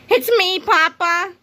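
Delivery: put-on high, eager childlike call; pleading cry. A narrator's reading. Krupp pleading with his parents, high eager cry. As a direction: beg them to recognize him. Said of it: "cried Mister Krupp".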